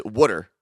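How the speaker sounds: "water" pronounced "wooder"; Philly "wooder". Shown as a demonstration. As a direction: demonstrate "wooder" with a short oo. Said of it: "Don Gamer said it's wooder".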